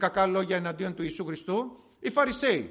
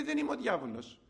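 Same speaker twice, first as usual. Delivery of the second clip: softer, matter-of-fact denial; not offended; 2 semitones higher, 5 dB quieter than usual. Retold or imitated. Jesus answers Pharisees' accusation, softly and unoffended. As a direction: say it without taking offence, softly. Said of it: "Δεν πήγε παρεξηγημένος".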